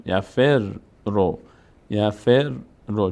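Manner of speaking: "یفر رو" in slow syllables, first ر closed and lengthened; teacher sounding out "یفر رو" with a doubled ر; doubled consonant. Shown as a demonstration. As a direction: demonstrate "یفر رو" slowly, holding the ر before releasing it into رو. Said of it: "ف میچسبه به را به صورت ساکن".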